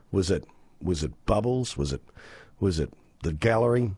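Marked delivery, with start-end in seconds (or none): none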